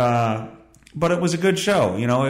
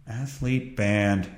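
news headline read; 5 semitones lower, 6 dB quieter, much slower than usual. Shown as a demonstration. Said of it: "have a little news thing here".

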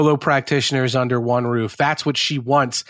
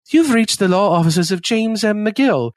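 mock Irish brogue, pitched higher; 6 semitones higher than usual. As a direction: put on an Irish brogue for a phone greeting. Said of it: "he starts to do the brogue".

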